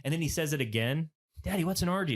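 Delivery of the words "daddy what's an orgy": imitating a kid asking out loud; higher-pitched little-boy question, fully voiced; louder child's question. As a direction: ask it aloud like an oblivious six-year-old. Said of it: "He says it louder".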